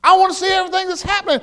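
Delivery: high, eager and fast; can't wait to keep reading; excited. Retold or imitated. Preacher retelling his own excitement reading Samuel, eager and fast. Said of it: "I thought".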